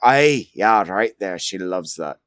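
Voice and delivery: deliberately terrible put-on accent; Grimnir. Grimnir guiding someone's head scritches, deliberately bad accent. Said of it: "Grimnir's accent is terrible".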